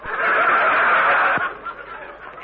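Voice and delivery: airy burst of laughter; breathless laugh. Real, not acted. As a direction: crack up breathlessly. Laughing at the drunk joke.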